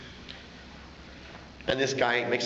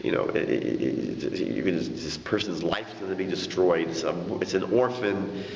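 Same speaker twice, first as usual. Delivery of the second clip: pleading; 3 semitones lower than usual. Retold or imitated. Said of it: "he starts begging".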